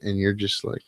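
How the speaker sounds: normal talking voice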